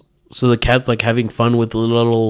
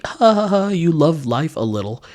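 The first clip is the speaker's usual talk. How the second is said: mock happy old patient; 5 semitones higher than usual. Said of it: "you're like".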